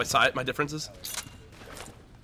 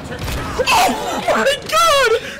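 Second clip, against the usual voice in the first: mock crying; 10 semitones higher, slower than usual. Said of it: "I'm gonna cry".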